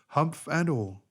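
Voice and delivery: ordinary delivery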